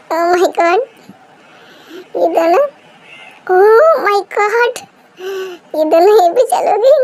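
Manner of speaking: laughing through the words; delighted giggle while teasing; giggling. Acted. Mother laughing at the couple caught together.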